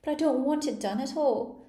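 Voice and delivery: a loud, high, whining groan. A narrator's reading. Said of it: "groaned the poor Queen".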